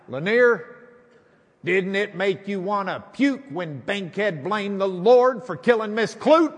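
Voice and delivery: mock angry lawyer. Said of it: "he's steaming mad".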